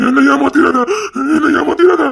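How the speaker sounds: tearful plea. Acted. Distressed plea not to cheat.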